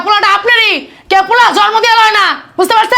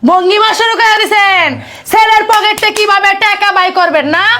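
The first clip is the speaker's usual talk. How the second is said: accusing scolding. Acted. Daughter-in-law accuses parents of faking.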